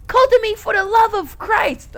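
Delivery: high, loud desperate calls; desperate shouting. Acted. Saturday begging Kotomi to answer, desperate shouting.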